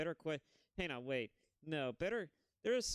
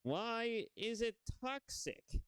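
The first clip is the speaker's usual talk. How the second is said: higher, slow yawning question; 10 semitones higher, much slower than usual. Real, not acted. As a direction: stretch it out through a yawn. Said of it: "as I'm yawning".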